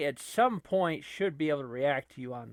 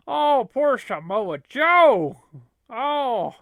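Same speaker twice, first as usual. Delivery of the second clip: mock pity; 8 semitones higher, 13 dB louder, much slower than usual. Real, not acted. Pitying wrestler in game.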